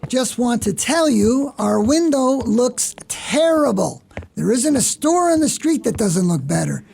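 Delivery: high-pitched, indignant boss's complaint; scolding. Acted. Boss telling staff the shop window looks terrible, scolding. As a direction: lay into the staff, drawing out the grievance.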